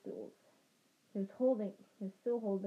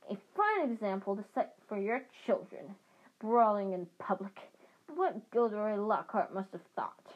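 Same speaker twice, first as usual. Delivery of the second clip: furious; 4 dB louder than usual. Acted. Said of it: "beside herself with fury".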